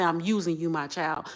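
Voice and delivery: lightly voiced God, tender. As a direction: say it softly, as God would to his child. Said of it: "God say".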